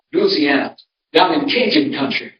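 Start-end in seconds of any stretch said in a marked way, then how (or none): 0.1-0.8 LOUISIANA as LOO-zee-ANN-uh; local Louisiana pronunciation. Shown as a demonstration. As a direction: back to the local Loozy-anna for Louisiana. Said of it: "But anyway, Louisiana".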